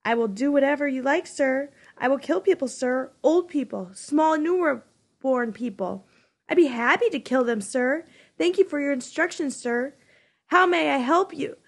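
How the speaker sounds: sneering imitation of a dutiful servant; cruel sarcastic mimicry. Jonas mocking the giver's obedient servant, cruelly sarcastic. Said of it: "in a cruel, sarcastic voice".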